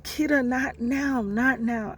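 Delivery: high-pitched harried mother; brushing someone off. Retold or imitated. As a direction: imitate a busy mom waving you away. Mother brushing off her daughter.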